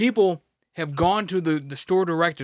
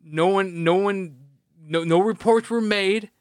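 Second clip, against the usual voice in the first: higher, louder faux-innocent insistence; mock innocence; 3 semitones higher, 4 dB louder than usual. Covering up the trailer hole, hammed-up innocence. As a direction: insist nobody saw a thing.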